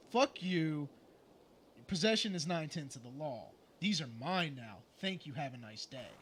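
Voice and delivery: low, firm mock refusal; defiant brush-off. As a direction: play a hard no, then drop to a dry sign-off. Acting out his reply to caller.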